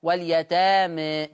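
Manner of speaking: واليتامى ending leaned toward ee, slowly; reduced alif. Shown as a demonstration. Teacher demonstrating the reduced ending. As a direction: draw out واليتامى with a tilted final alif. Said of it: "الفتح والتقليل في لفظ واليتامى".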